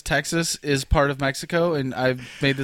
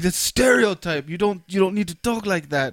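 lightly imitated, higher Mexican accent; exasperated Mexican coworker; 4 semitones higher than usual. Coworker objecting to a stereotype, light Mexican accent. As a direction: protest in a mild put-on Mexican accent. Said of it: "He's like, he's like".

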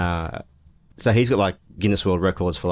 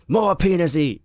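put-on drunk voice; 11 semitones higher, slower than usual. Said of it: "I was drunk, so I was like".

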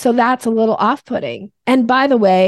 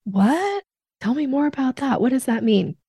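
intrigued "what"; 5 semitones higher than usual. Retold or imitated. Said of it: "allow somebody to go".

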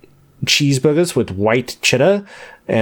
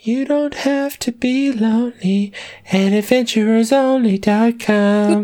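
cheesy ad announcer; 10 semitones higher, slower than usual. Acted. Joke dating site ad read.

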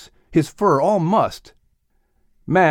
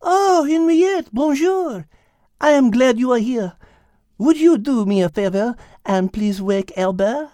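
put-on higher French accent, amused; French-accented Liz; 11 semitones higher than usual. Liz explaining the rooster, French accent. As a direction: explain it with Gallic ease.

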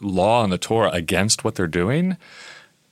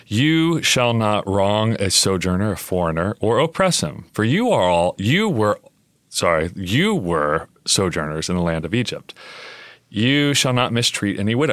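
formal scripture reading. Shown as a demonstration. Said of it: "let me read it in the translation".

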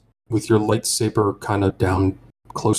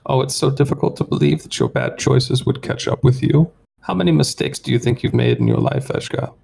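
high, smug bounty hunter; whining alien voice; 5 semitones higher than usual. Acted. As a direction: gloat in a high whine. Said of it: "a high kind of whining voice".

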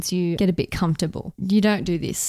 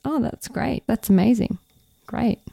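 understated, deadpan enthusiasm; mild, unexcited approval; monotonous praise. Shown as a demonstration. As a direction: praise it without sounding excited. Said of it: "enthusiastic phrases monotonously".

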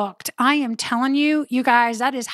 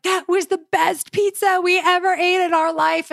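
put-on kids' voice; 6 semitones higher than usual. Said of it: "they're like".

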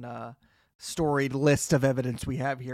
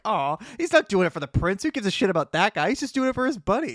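touched, higher-pitched gushing; 5 semitones higher than usual. Acted. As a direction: gush over a sweet friendship. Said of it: "It was so touching to be like".

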